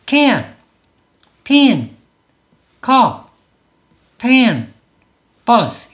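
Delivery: "can, pin, cup, pen, bus" in single punched beats, pauses between; one-beat English words. Shown as a demonstration. Teacher modelling for students, "can, pin, cup, pen, bus" one syllable each. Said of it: "이렇게 한 박자로 소리를 낸다는 거고요".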